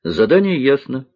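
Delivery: "Задание ясно" as a firm statement; answering for everyone. A narrator's reading. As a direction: confirm "ясно" with no questioning rise. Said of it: "ответил за всех Гарик". («Задание ясно» как утвердительный ответ)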